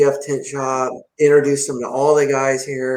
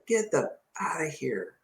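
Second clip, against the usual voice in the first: whispered get-lost aside; retold dismissal; 12 dB quieter than usual. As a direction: send them off in a near-whisper. Retold dismissal of angry woman.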